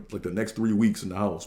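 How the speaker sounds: ordinary delivery, nothing marked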